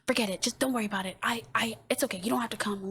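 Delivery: retold annoyed brush-off; mildly irritated, cutting the other person off. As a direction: act out a huffy never mind. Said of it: "and I'm just annoyed".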